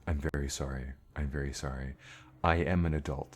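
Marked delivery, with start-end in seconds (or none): 0.1-1.9 meek apology. Pretend. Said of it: "I need that other trusted adult".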